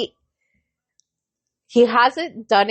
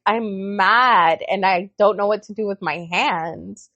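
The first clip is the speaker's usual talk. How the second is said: slow, lower-pitched restrained son; calm and collected; 4 semitones lower than usual. Retold or imitated. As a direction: imitate him explaining himself evenly. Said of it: "he's all calm and collected".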